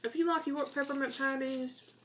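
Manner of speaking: talking with a mouth full. Real, not acted. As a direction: speak around a mouthful of candy. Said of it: "sorry, talking with my mouth full".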